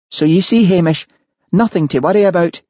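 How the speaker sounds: voicing the wife on the recording; Mary's voice. A narrator's reading. Mary voiced in narration.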